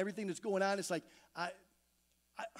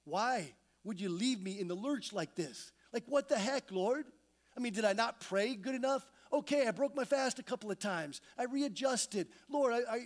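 mock angry complaint; 3 semitones higher than usual. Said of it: "I'm just angry".

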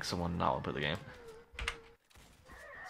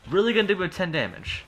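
higher, falling grumble with weight on "gonna"; exasperated; 10 semitones higher, faster than usual. Real, not acted. Still complaining about the weak hit, an exasperated falling grumble. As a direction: let it drop off in annoyed resignation.

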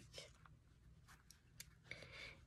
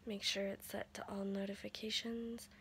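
voice giving out; 6 dB quieter than usual. Real, not acted. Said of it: "my voice is about shot".

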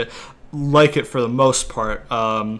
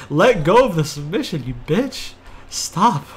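raised, higher-pitched angry demand; frustrated yelling; 4 semitones higher, 4 dB louder than usual. Real, not acted. Gamer trapped in a submission hold, angrily yelling. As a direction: yell at a stubborn opponent.

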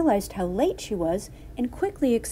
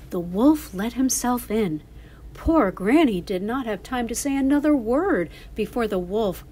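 put-on lively children's storyteller; story narration. A narrator's reading. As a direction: read it to young listeners as a story.

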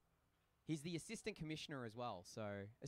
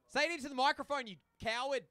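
loud, high-pitched heckle; mock telling-off; 10 semitones higher, 10 dB louder than usual. Real, not acted. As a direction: call out the coward at full volume.

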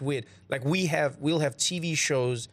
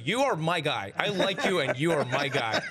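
stiff German Denzel. Retold or imitated. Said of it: "he's basically going".

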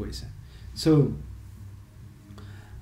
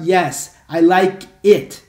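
Yes, I like it said slowly and louder; slow model answer; 7 dB louder, much slower than usual. Shown as a demonstration. Teacher slowly models Yes, I like it for students. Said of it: "podemos falar".

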